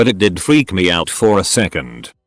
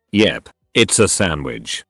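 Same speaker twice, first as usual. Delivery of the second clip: slow, lower mock-patronizing reply; 4 semitones lower, 3 dB quieter than usual. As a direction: retell it with slow, mild condescension. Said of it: "said patronizingly".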